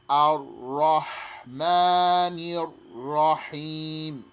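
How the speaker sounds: ra doubled in "Ar-Rahmanir Rahim", chanted slowly; slow recitation. Shown as a demonstration. Teacher reciting slowly, ra doubled. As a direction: double both ras.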